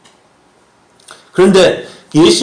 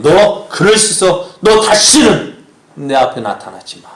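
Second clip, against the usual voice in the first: mock indignant dismissal, pitched up at the start; a burst of reproach that drops off; angry rejection; 5 semitones higher than usual. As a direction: send them away with acted outrage. Acts an angry rejection of Peter.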